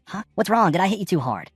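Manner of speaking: mock-innocent, enjoying the joke; amused teasing. Jin-soo mocking Soo-won after smacking his head, amused. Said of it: "says in a very amused tone".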